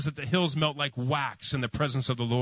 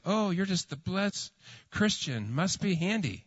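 sarcastic; 6 semitones higher, slower than usual. Retold or imitated. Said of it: "sunshine and daisies".

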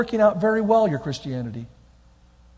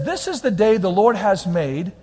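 slow scripture recital; slower than usual. Shown as a demonstration. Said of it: "It says".

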